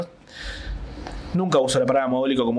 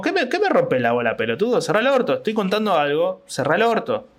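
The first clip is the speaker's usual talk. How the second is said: mock stage anger; 4 semitones higher than usual. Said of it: "en el escenario fue como".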